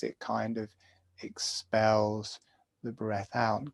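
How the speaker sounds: guided meditation. Acted. Teacher guiding students through jaw breathing, calm meditation voice. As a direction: talk them gently through each breath.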